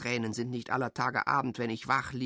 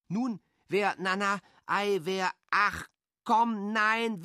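put-on coaxing a child; 6 semitones higher than usual.

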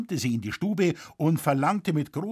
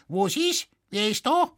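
put-on high, shrill scolding old woman voice; 11 semitones higher, 3 dB louder than usual. A narrator's reading. Old woman snapping at a late knock, shrill and high. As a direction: snap at the door like a cross old widow. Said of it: "mit keifender Stimme fragte".

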